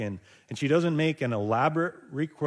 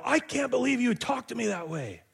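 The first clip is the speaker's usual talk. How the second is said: mock offended; 9 semitones higher than usual. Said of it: "She doesn't stand up and go".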